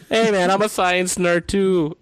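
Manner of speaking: slow, loud, put-on dude voice; eager tagalong. Mocking a know-nothing fan who jumps in, slow loud dude voice. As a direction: drawl it like a try-hard joining in. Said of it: "It's just like".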